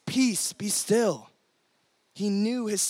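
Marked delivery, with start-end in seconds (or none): 0.0-1.3 calm command. Retold or imitated. Jesus calms the storm.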